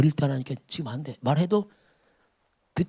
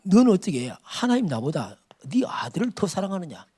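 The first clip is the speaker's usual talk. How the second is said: rebuking voice; 2 semitones higher than usual. Acted. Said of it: "그게 하나님 책망이죠".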